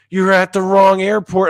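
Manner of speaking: loud, high imitation of a panicked friend; retold alarmed shout. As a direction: cry it out as horrified news. Acts out friend's alarmed revelation.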